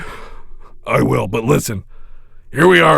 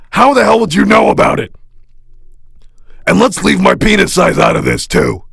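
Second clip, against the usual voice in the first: offended protest; 6 semitones higher than usual. Acted.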